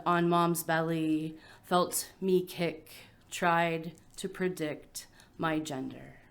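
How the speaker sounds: measured poem delivery with pauses between phrases; poetry reading. Acted. Adopted poet reading about a missing baby shower, measured recital. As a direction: let each image land, phrase by phrase.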